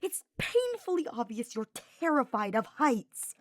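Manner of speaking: lightly voiced teasing knight; a hint of a cheeky young knight, grinning; Sylvain's voice. Sylvain teasing Hubert while carrying him, lightly voiced.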